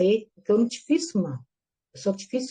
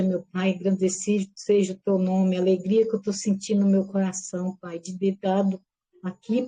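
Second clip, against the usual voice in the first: prayer. Real, not acted. Closing prayer on the live.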